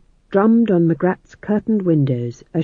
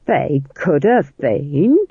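defensive; much slower than usual. Acted. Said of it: "said Nanny defensively".

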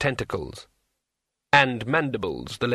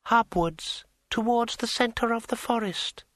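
higher, slow, silky tree spirit; smooth dryad voice; 11 semitones higher than usual. A narrator's reading. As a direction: glide through it smoothly. Dryad speaks.

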